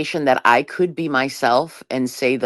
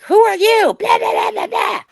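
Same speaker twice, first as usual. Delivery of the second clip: high squeaky mocking voice, much higher; mock rude stranger; 4 dB louder than usual. Deb mocks a stranger snubbing Melissa in a high squeaky voice. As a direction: sneer it like a snooty stranger brushing you off.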